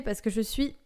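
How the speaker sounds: hiccup breaking into the phrase; speaking through a hiccup. Real, not acted. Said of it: "désolée, j'ai le hoquet".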